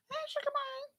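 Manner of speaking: high sweet cat call; soft high calling voice. Shown as a demonstration. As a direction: call the kitty in a high coo. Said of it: "In that high voice".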